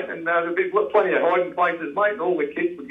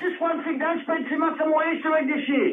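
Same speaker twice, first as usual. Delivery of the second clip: joking, laughing; 10 semitones higher, 3 dB quieter than usual. Real, not acted.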